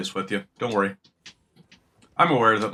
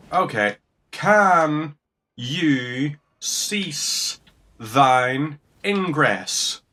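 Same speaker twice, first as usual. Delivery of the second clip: mock formal; 5 semitones higher, 3 dB louder, much slower than usual. Fed up with attacking enemy.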